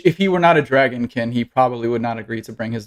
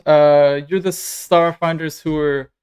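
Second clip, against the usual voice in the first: lightly voiced nervous dragonkin, halting and higher; awkward dragonkin; 3 semitones higher than usual. Stranger approaches the Starfinders he followed, awkward and hesitant. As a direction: stammer through an uneasy introduction.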